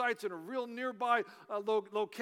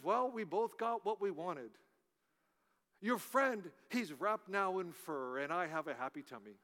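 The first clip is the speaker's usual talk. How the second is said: softer, understated British bear; British accent; 3 semitones lower, 4 dB quieter than usual. Acted. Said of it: "in a British voice".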